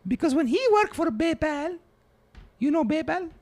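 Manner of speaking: put-on old immigrant grandmother, broken English; grandma voice. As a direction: play a doting, blunt old grandma. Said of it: "Come on in, Grandma".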